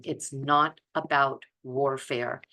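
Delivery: ordinary talk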